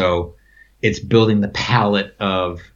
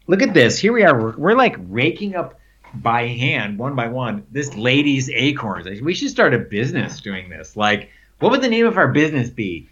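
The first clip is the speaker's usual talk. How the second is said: joking excitement; 2 semitones higher than usual. Retold or imitated. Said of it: "We're joking around".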